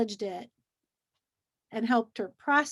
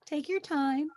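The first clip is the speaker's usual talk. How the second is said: softer, gentle coaxing; soft soothing; 4 dB quieter than usual. Retold or imitated. Teacher to exhausted child, soft soothing voice. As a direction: settle the tired child down softly. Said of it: "And I'll say".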